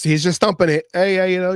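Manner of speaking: ordinary talk, nothing marked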